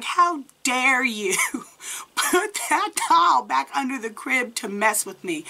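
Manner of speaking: indignant retold phone tirade, half amused; pissed off. Calling him at work about the doll, mock-indignant. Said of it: "I am pissed at this point".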